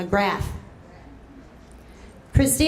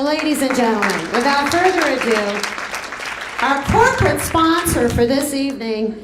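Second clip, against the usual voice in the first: announcer intro; 3 semitones higher, 3 dB louder than usual. Real, not acted.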